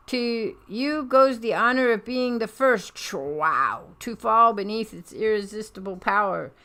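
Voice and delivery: loud, grand villain proclamation; gloating villain speech. Acted. Strucker proclaiming his new order to his men, loud and grand. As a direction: boom it out like a conqueror.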